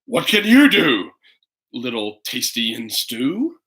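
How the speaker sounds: a hungry beast gloating over its dinner; hungry bear. Acted. Bear answers Toby.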